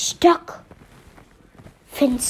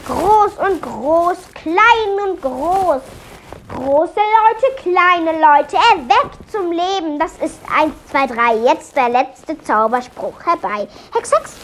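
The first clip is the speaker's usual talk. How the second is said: loud clear spell; 2 semitones higher than usual. A narrator's reading. Melia says the spell again, loud and clear. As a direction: chant it out plainly, word by word. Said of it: "laut und deutlich vorsagte".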